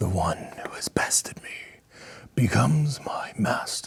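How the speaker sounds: hushed, ghostly whispered spirit voice. Narrating to the players as the slain creature's spirit speaks: dragon spirit voice. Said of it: "it's in Draconic, and you just hear".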